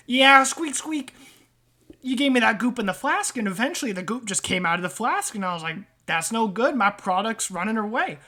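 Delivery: lightly voiced wiseguy rat telling his woes; hint of an indignant rat; aggrieved rat trader. Rat recounting his severed hand, mildly aggrieved.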